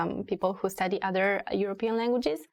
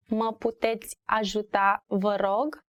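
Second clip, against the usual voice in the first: careful repetition. Shown as a demonstration. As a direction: say it carefully for learners, spacing the words. Teacher repeats phrase for learners.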